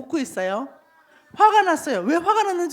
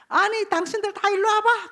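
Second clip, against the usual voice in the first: higher-pitched, mildly cross summons; angry prophet; 6 semitones higher than usual. Acted. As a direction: call the crowd over, annoyed. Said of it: "화가 나가지고". (화가 난 듯 높은 목소리로 사람들을 부르며)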